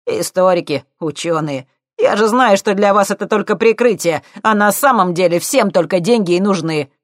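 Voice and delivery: high loud cheeky lad; cocky punk. A narrator's reading. Thief needling the scientists, loud and cocky.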